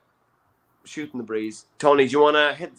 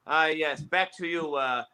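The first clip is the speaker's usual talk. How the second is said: posh commentator; 8 dB quieter than usual. Acted. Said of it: "have one posh commentator".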